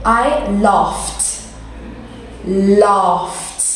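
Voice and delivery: "laughed" with an f sound then a final t. Shown as a demonstration. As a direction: model "laughed" carefully, ending in ft. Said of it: "like an F G H sound".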